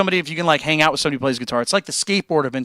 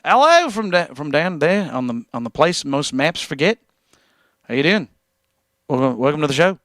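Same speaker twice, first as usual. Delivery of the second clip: badly attempted New Zealand accent; hammy, half-landed New Zealand accent; terrible New Zealand accent. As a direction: have a clumsy go at a Kiwi accent. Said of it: "Terrible New Zealand accent".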